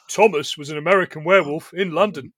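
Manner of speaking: lightly imitated Scouse narrator; hint of a storytelling Liverpudlian voice; a famous musician. Co-host mocking the accent as a children's narrator, light Scouse impression. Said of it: "that sounds like Ringo Starr".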